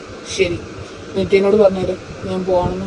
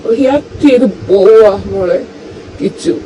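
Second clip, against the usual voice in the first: hurt outburst. Acted. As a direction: pour out the hurt, almost shouting. Hurt husband pours out his anger.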